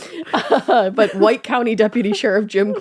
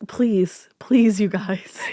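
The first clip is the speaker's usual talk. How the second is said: mock begging; much slower than usual. Begging hosts to spare monster.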